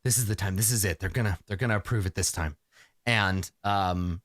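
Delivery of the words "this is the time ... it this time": pep talk to himself. Acted. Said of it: "pep talk with himself".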